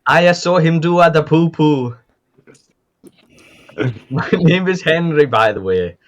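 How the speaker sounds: a light Southern twang, a little high; Southern accent. Acted. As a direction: play the cowboy from the south of America. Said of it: "I'm from the south of America".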